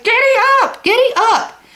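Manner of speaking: high, loud call to the oxen; boy shouting at his steers; shouted command. A narrator's reading. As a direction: yell it at the team to move. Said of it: "He shouted".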